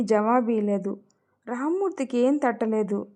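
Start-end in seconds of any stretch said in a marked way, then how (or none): none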